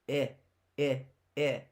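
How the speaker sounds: short vowel "I" sounded alone, clipped like in "gym". Shown as a demonstration. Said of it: "That's a short I".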